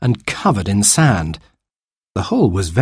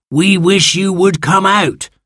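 higher, insistent creature voice quoting back; indignant sand fairy; 9 semitones higher than usual. Acted. Sand fairy proves wish was granted, indignant creature voice. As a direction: throw the child's words back as a cross creature.

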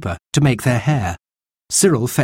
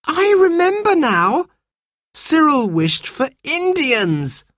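alarmed; slower than usual. A narrator's reading. Jane's alarmed realisation after wail.

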